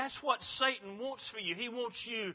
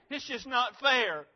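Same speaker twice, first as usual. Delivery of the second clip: self-pitying whine, higher and drawn out; slow, higher mock whine of injustice; whiny complaint; 4 semitones higher, 4 dB louder than usual. Preacher mimics a whiner feeling sorry for himself, whiny complaint. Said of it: "become a whiner and complain and feel so sorry".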